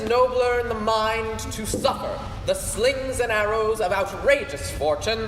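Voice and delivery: a touch of theatrical Hamlet; stage recitation. Acted. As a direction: recite it as the brooding prince. The speaker performs the Hamlet soliloquy.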